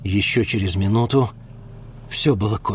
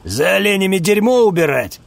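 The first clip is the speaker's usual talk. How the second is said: scornful jab, raised and louder; taunting question; mocking sneer; 8 semitones higher, 5 dB louder than usual. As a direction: sneer at the country boy. Mocking the boy's skills.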